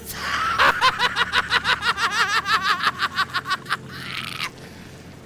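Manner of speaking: loud high disbelieving what; shocked shout. Real, not acted. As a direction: blurt it out in shock. Shocked by the intro video.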